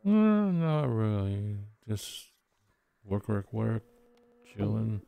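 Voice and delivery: tipsy and slurring a bit. Real, not acted. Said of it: "I'm very drunk right now".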